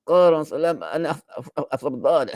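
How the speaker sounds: mock Arab lecturer, high and forceful on Qala Rasulullah; imitating the Arab teacher. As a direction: play the lecturer proudly mangling the word. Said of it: "tapi sebutan tak betul".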